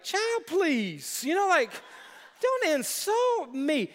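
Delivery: dismissive sass. Retold or imitated. Proud bride dismissing the pastor's guess, high and sassy. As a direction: wave him off like the question's beneath her. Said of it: "she looked at me like".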